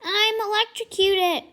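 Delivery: high, loud plea for help; hurt teacher crying for help; desperate cry. Acted. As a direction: cry out in pain. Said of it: "Then she's like".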